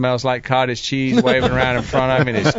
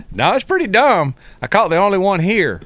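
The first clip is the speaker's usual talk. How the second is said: higher, louder, amused confession; self-mocking laugh; 7 semitones higher, 3 dB louder than usual. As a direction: laugh it off like a joke.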